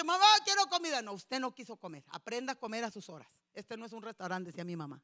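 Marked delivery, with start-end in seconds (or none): 0.0-1.0 high, loud plea; whiny child. Retold or imitated. Child asking mom for food at midnight. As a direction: beg for food.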